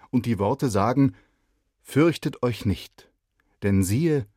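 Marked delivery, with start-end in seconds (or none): 1.8-4.3 slow, louder proclamation; solemn angel. Acted. Boy rehearsing the angel's words to the shepherds, solemn. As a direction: announce it grandly like an angel.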